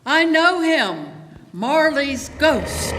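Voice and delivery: a loud, high cry, drawn out slowly on the name. A narrator's reading. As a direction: let the dying flame cry out the name as if it knows him. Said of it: "as though it cried".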